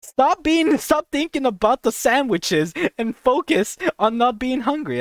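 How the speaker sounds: lightly voiced stomach losing patience; angry stomach. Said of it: "my stomach's like".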